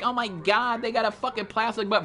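high mock outrage; mocking complainer. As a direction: imitate a picky complainer. Mocking picky people's complaint.

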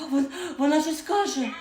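a sudden startled yell; shocked cry that someone is speaking; startled shout. Acted. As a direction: blurt it out loud in surprise.

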